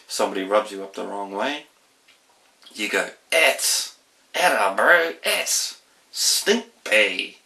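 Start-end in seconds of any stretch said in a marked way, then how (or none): 3.3-7.4 annoyed Kiwi slang, louder; broad kiwi accent. Shown as a demonstration. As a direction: grumble it like a cheeky New Zealander. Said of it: "Kiwi speak".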